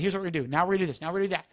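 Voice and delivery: controlling driver laying down orders. Shown as a demonstration. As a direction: take charge of them. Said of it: "a driver taking over".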